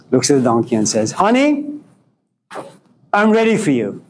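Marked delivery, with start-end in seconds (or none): 1.1-4.0 mock seductive. Woman invites the donkey.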